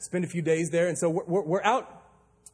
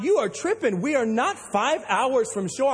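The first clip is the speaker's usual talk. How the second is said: high, slow, raised disbelieving retort; exasperated retort; 4 semitones higher, slower than usual. Retold or imitated. Captain argues with the calm stranger on the radio, exasperated. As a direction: push back in disbelief. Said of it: "I said".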